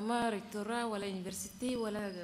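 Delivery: irritated protest. Real, not acted. Annoyed witness protests question in court.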